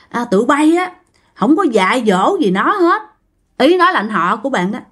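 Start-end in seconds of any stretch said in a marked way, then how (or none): 0.1-3.0 lightly voiced scolding great-grandfather, pitched up. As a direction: reproach the family as their dead elder. Ông cố mắng con cháu trong mơ.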